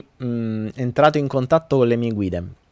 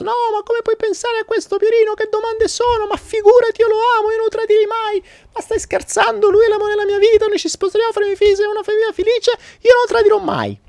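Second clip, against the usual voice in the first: put-on high falsetto young woman protesting; high-pitched offended girl; sister's voice. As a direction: squeal it out as the indignant sister.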